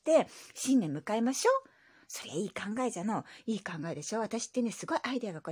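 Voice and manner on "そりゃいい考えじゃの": lightly voiced old grandpa; grumbly old grandpa reply; old man voice. Grandpa character voice.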